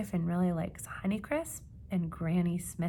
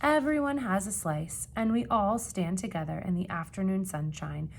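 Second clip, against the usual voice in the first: storybook reading; 3 dB louder than usual. A narrator's reading. Reading picture book to children.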